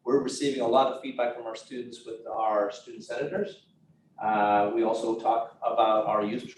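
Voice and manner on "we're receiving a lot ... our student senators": teacher voice. Real, not acted. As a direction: speak up like a teacher addressing a class. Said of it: "I'll use my teacher voice for you now".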